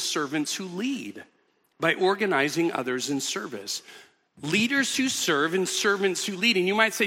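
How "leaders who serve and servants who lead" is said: "Leaders" hit first and firmly, the rest plainer; stress on leaders. Shown as a demonstration. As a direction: lean hard on the word "Leaders". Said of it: "I'm putting the emphasis on that first word".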